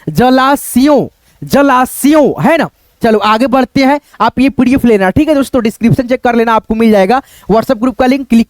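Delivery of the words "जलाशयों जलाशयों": slow demo. Shown as a demonstration. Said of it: "इस प्रकार से बोलना होगा".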